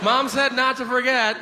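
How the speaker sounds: mock psychopath reading off a shopping list; psychopath with a grocery list. Shopper to himself in the porn store, mock psychopath. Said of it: "what kind of a psychopath I looked like".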